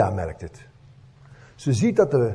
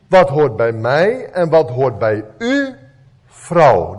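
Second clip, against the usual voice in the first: calm, explaining tone with a kindly ending; gentle and sincere; 3 semitones lower, 3 dB louder than usual. Shown as a demonstration. Preacher giving the Greek meaning, gentle and sincere. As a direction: say it as a caring clarification. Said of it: "Hoor je het verschil?".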